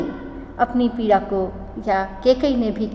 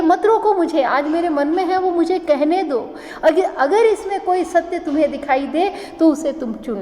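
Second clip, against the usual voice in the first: higher-pitched, urgent appeal; insistent plea; 4 semitones higher than usual. Acted. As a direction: plead to be heard, voice raised in pitch. Queen insists the assembly hear her.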